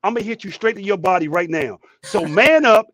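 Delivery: lively retold pep-talk, punching the final order; retold tough-love threat. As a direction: imitate a doctor's playful tough talk. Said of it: "She said".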